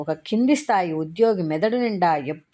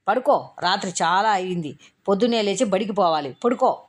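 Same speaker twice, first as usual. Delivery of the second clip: curt order to sleep; 2 semitones higher than usual. Acted. Warden ordering child to sleep.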